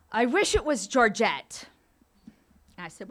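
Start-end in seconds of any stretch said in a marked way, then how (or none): 0.1-1.7 slow, louder, lightly voiced elderly mother; a hint of a stubborn old mother; mother's wish. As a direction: drag it out wistfully like an old mom. Ninety-two-year-old mother voiced in story.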